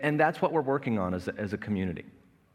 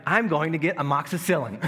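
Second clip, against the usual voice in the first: mock cheerful reply; 5 semitones higher, 4 dB louder than usual. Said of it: "And I'm like".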